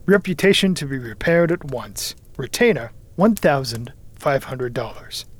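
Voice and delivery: itemised record, headings lifted; reading aloud. A narrator's reading. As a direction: read out a dossier entry by entry, emphatically. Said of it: "he read aloud".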